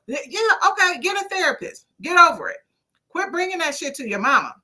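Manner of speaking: fed up. Real, not acted. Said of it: "I'm sick and tired".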